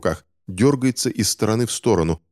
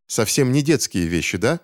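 put-on higher, bitter child's retort; angry exhale; 6 semitones higher than usual. Boy Finch retorting to the doctor, mild angry exhale. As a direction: spit it back at him, angry and breathy. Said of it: "гневно выдохнул Финч".

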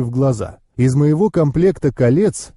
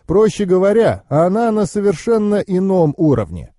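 higher-pitched knowing uncle; explaining uncle; 6 semitones higher than usual. Acted.

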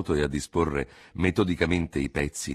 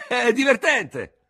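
slow, high, dry È divertente; old doctor's favourite word, said slow; dull old surgeon; 8 dB louder, slower than usual. Acted. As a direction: drawl out divertente flatly. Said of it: "fece il vecchio chirurgo".

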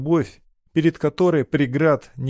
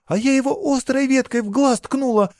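put-on much higher, pleading girl's voice; desperate girl pleading; 12 semitones higher than usual. A narrator's reading. Girl begs her lover, desperate. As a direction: she begs him to believe her.

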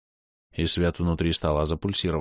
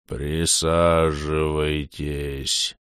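very slow, eerie distorted voice; 3 semitones lower, much slower than usual. Acted. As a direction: eldritch horror, drawn out slowly. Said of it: "раздался жутко искажённый голос".

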